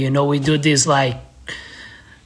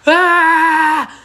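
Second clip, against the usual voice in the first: a sudden high yell of friends; retold crowd cheer; 10 semitones higher, 4 dB louder than usual. Skater retelling his friends cheering the surprise, a sudden high yell. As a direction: shout it like the crowd bursting out behind him.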